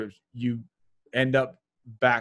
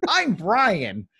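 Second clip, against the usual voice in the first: nerdy white guy voice; 6 semitones higher than usual. Acted.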